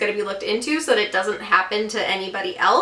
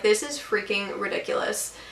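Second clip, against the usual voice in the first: low-volume aside, said to oneself; retold under-breath grumble; 3 semitones lower, 8 dB quieter than usual. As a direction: drop the volume for a muttered complaint. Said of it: "under my breath".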